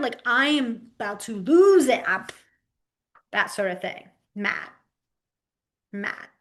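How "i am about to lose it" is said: mock anger. Shown as a demonstration. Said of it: "like, angry mad".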